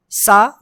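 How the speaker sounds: सा as a plain hissed "sa"; normal S sound. Shown as a demonstration. Teacher contrasting three letters, plain S. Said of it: "जो normal सा है".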